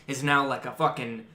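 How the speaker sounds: ordinary talk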